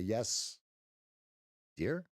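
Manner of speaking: long pause between "Yes" and "dear"; dramatic pause. Shown as a demonstration. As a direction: say "Yes", hold back, then a questioning "dear?". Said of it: "the dramatic pause".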